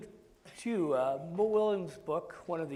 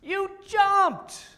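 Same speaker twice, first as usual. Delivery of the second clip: Piggy; 10 semitones higher, 8 dB louder than usual. Acted. Piggy voiced.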